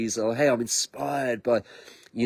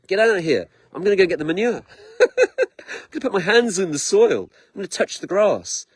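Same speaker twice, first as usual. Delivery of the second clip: defiant cheer; 6 semitones higher than usual. Retold or imitated. Telling the controlling AI he will fetch manure instead. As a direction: brush off the AI and choose the soil. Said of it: "I'm like".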